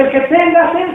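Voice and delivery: sudden high, loud call; "El que tenga sed" flung out to the crowd; shouting. Acted. Jesus standing up and crying out to the crowd, shouted. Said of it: "se pone a gritar".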